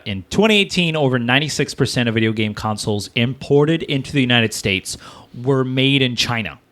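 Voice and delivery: measured, formal read-aloud; reading a statement aloud. Acted. Host reads console makers' statement to co-host, measured read-aloud. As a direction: read out an official written statement.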